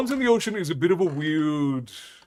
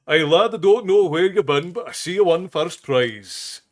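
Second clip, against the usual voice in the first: a touch of startled, quicker Scotsman's exclamation; 4 semitones higher, 7 dB louder than usual. Acted. Drunken Scotsman gawking at himself behind the bush, mildly startled. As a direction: blurt it out, mildly startled by what he sees. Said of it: "in a startled voice he says".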